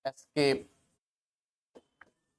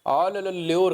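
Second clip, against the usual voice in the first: calling a street dog to a biscuit, chirpy; sing-song ले, ले, ले to lure a dog; coaxing a dog; 4 semitones higher, 4 dB louder than usual. Retold or imitated. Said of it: "करते हैं उसको हम".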